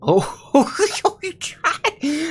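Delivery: high, loud, laughing shriek; shocked scream. Real, not acted. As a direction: shriek at the jump scare. Jump scare reaction.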